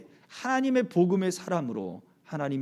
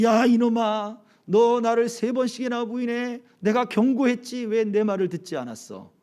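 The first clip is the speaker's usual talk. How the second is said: higher, sharp hypothetical rebuke; mock scolding; 4 semitones higher than usual. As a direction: scold him like an angry master, half-acted. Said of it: "그렇게 말씀하지도 않았고". (높은 목소리로 꾸짖는 흉내)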